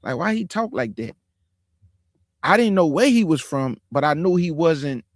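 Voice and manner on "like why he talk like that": put-on puzzled kid. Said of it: "I still was like".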